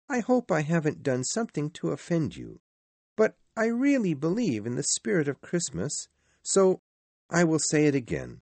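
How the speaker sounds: high-pitched, heartfelt well-wisher; earnest nephew. A narrator's reading. Narrator voices the nephew's farewell.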